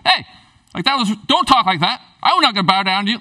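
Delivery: firm, indignant father scolding; emphatic mock telling-off; stern rebuke. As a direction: rebuke a son, lightly acted. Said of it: "It was serious".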